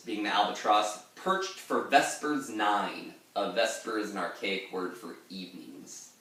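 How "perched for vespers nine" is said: Ancient Mariner voice. Acted. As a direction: intone it like the old mariner. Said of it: "that's the end of the Ancient Mariner saying that".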